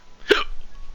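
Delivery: sharp unvoiced hiccup gasp; a sudden real hiccup. Real, not acted. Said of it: "fuck these hiccups".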